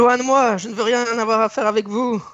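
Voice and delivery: high, loud frightened shriek; screaming in fear. Acted. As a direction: cry out, terrified, to keep away. NPC screams behind the doors.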